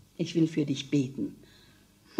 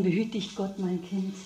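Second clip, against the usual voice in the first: quiet, softer blessing; tender quiet goodbye; soft farewell; 6 dB quieter than usual. Acted. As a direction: bless her gently and softly. Mother's farewell to daughter.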